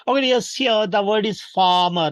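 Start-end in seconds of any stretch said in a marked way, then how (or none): 1.4-2.1 FARMER as FAH-muh; silent R. Shown as a demonstration. Teacher introduces farmer, Rs silent. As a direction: drop both Rs in FARMER. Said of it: "because R is not spoken".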